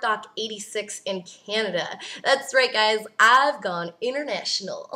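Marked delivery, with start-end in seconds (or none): 2.2-4.9 playful, lightly put-on Southern accent; a hint of mock Southern accent. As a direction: announce it proudly with a touch of Southern twang. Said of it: "like, a southern accent".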